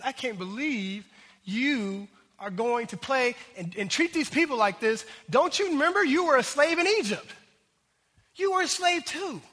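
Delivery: acting out an incredulous scolding, rising as it builds; preacher voicing God's exasperated reproach; indignant rebuke. Preacher voices God reminding former slaves where they came from, indignant rebuke.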